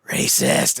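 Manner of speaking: loud, rough sitcom yell; mock outraged holler; bursting-in shout. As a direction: blurt it as if crashing through a door.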